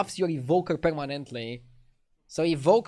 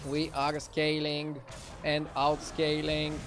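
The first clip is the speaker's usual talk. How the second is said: slow, even mech robot voice; 3 dB quieter, slower than usual. Pretend. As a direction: talk like a mech, slow and steady. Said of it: "I'm talking like a mech".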